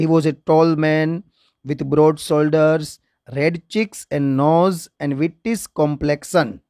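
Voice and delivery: slow, measured English reading; textbook read-aloud. Shown as a demonstration. Teacher reading a description of Alibhai to students, slow read-aloud. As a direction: read out each phrase slowly, pausing between.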